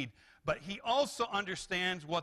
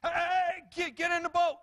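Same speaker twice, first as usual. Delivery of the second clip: high, loud, stammered urgent order; emphatic imperative; 13 semitones higher, 6 dB louder than usual. Acted. Jesus suddenly orders disciples into boat, emphatic imperative. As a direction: burst out with a sudden command. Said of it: "that's the kind of language that's used here".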